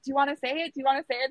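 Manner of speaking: retold tender prompt; gentle prompting. Gently prompting sobbing husband.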